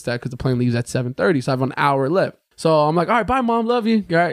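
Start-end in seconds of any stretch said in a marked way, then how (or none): 3.1-4.0 put-on high-pitched childlike goodbye; little kid. Kid saying bye to mom at drop-off, high and childlike. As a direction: chirp it high like a schoolkid. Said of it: "like a little kid".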